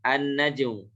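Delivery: "an-najmu" with no l and a doubled n; assimilated lam. Shown as a demonstration. Teacher models for students, "an-najmu" with the l merged into n. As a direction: hold the n in "an-najmu", skipping the l. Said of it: "Lamnya tidak usah dibaca".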